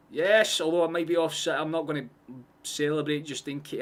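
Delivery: loud, high, breathless cheer; excited shout. Real, not acted. Streamer cheering a goal that may be offside, loud cheer. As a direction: shout it while holding back the celebration.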